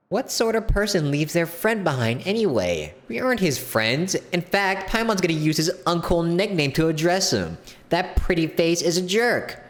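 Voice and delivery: high-pitched, huffy character voice; high, put-out sidekick voice; indignant little companion. Acted. Voices Paimon in the game.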